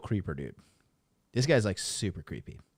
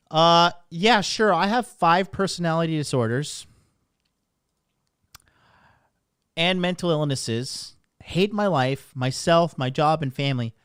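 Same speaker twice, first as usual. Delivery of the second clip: mock liberal voice; 3 semitones higher, 5 dB louder than usual. Reading a mocking meme aloud.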